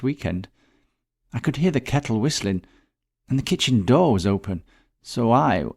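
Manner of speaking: a shaken friend retelling finding the body; Letta voiced. Narrator voices Letta recounting.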